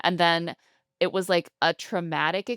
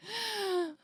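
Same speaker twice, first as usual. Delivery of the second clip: gasp after laughing; 6 dB quieter than usual. Real, not acted. Catching breath after laughing.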